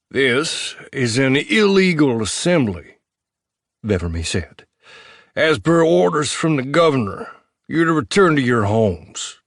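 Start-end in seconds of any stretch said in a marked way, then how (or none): 0.1-3.0 a lightly voiced cold lawman, slow; slow, cold official warning; stern officer voice. Officer declaring the gathering illegal, slow and stern. 5.4-9.4 stern officer voice. Acted. Vevermy gives orders.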